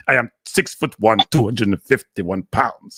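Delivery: slow, drawn-out mock-proud brag; a teasing imitation of a proud boast. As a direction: parody someone showing off their size, slowly. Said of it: "like something to boast about".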